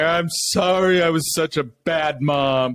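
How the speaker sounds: very slow, drawn-out, high, acted sobbing voice. Imitating a parent who overshares and cries: mock crying. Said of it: "or I'm, like, crying".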